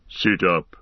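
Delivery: menacing orc leader voice; gruff orc captain. Acted. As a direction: threaten like a brutal orc captain. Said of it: "said the orc".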